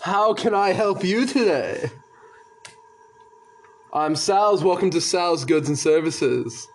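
bright, upbeat merchant greeting; cheery shopkeeper. Acted. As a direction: welcome customers like an eager shopkeeper. GM voices shopkeeper Sal.

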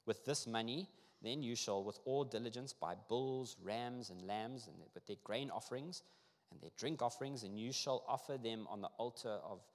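emphatic, formal reading of a decree; scripture reading. Acted. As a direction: read it out to a congregation, phrase by phrase. Reads scripture aloud.

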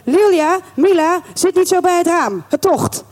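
high motherly call of warning. Acted. Mother warning daughters about the draught, high calling. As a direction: break off and call across the room.

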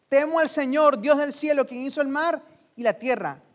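declaración lenta, fuerte y aguda; Jonás solemne. Acted. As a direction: proclamarlo con orgullo, despacio. (Jonás responde a los marineros, lento, fuerte y solemne)

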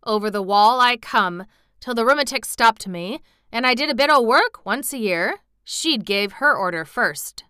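put-on loud, stubborn old gardener; grumpy obstinacy. A narrator's reading. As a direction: insist doggedly in broad country speech. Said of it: "with grumpy obstinacy".

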